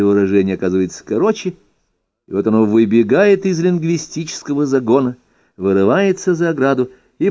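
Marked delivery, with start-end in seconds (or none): none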